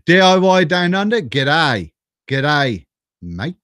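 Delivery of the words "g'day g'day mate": lightly attempted Aussie greeting; dodgy Australian accent. Greeting a viewer from Down Under, dodgy Australian accent. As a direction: have a half-hearted go at an Aussie accent. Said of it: "not even gonna try an Australian accent".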